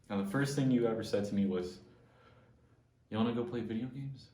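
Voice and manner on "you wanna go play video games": straight face. Retold or imitated. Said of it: "It was straight face".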